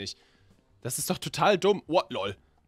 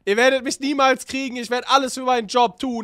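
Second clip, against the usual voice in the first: hammed-up villain boast; 7 semitones higher, 7 dB louder than usual. Boasting as rowdy.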